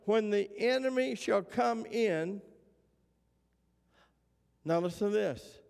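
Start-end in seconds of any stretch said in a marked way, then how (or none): 0.1-2.4 "When the enemy shall come in" held apart as its own clause; pause after "in". Shown as a demonstration. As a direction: end the phrase at "come in", then stop for a long pause. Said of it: "it reads this way".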